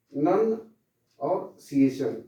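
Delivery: नन and सिएशन said one by one, सिएशन slow; syllables sounded out. Shown as a demonstration. Teacher breaking word into syllables for class. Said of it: "इसको हम लोग पढ़ेंगे प्रोनंसिएशन".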